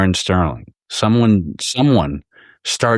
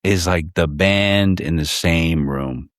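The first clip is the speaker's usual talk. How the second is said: slow insistence; slower than usual. Retold or imitated. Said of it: "I said".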